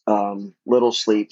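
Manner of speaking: normal talking voice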